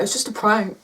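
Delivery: mock their feeble excuse; mocking imitation. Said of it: "they're like".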